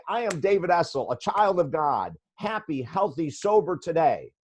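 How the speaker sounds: upbeat self-affirmation, a touch emphatic; proud affirmation. Shown as a demonstration. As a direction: announce it like a proud morning mantra. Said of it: "you get up in the morning and you say".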